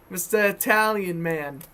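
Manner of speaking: put-on Mister Italian man in a Boston accent; announcer in a light Boston accent. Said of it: "when I'm in a Boston accent".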